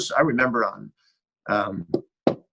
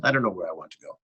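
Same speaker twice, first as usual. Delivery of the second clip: lightly imitated French accent, lower and softer; a subdued touch of French accent; 4 semitones lower, 5 dB quieter, much faster than usual. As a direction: quote him quietly with slight French. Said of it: "but in his French accent".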